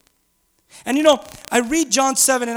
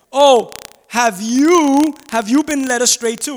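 slow, drawn-out sneering "Oh", louder; mocking scorn; 6 dB louder, slower than usual. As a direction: taunt the guards like fools. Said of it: "the Pharisees began to mock".

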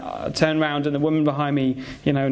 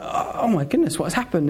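startled reaction; 3 semitones higher than usual. Retold or imitated. Acts own startled reaction to scream.

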